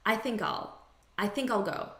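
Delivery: I'LL reduced to "ul" after "think"; natural spoken I'LL, losing its long vowel; unstressed I'll. Shown as a demonstration. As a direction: run "think I'll" together, I'LL weakened to "all". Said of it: "the unstressed pronunciation is I'll".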